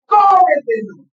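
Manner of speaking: "Cómetelo" with a push on CÓ; stressed syllable marked. Shown as a demonstration. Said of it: "marca la sílaba tónica". ("Cómetelo" marcando la sílaba tónica CÓ)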